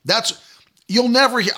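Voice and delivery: ordinary talk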